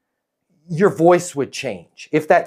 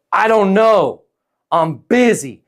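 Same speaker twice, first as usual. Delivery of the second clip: busy prospect; 4 semitones higher, 3 dB louder than usual. Acted. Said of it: "Kurt's gonna go".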